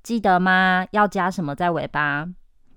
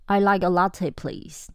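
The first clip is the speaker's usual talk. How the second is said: polite request. Shown as a demonstration. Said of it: "有两种说法".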